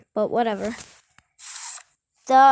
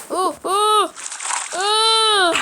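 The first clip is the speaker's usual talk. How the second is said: excited ooh; 8 semitones higher, 4 dB louder, much slower than usual. Real, not acted. Excited at game.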